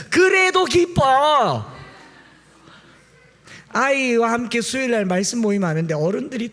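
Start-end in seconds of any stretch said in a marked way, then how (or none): 0.1-1.8 high, exuberant outburst; insistent joy. Acted. Preacher answers rising bad feelings, exuberant defiant joy. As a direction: burst out joyfully, pitched right up. Acting out forced rejoicing.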